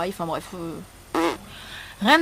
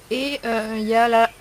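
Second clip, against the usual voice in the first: frog in throat; 5 dB louder than usual. Real, not acted. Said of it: "j'ai un truc dans la gorge".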